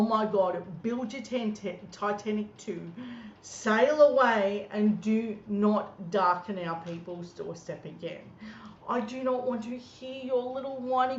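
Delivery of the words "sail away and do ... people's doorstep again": drawn out slow and loud; scornful dismissal. Real, not acted. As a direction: wave him off with mocking length. Telling Palmer to leave.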